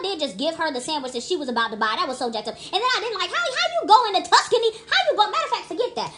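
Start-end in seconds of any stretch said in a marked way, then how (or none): 2.5-6.1 high giggly words through laughter; laughing. Real, not acted. Mocking the cheap vacation, laughing through it. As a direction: laugh as you talk.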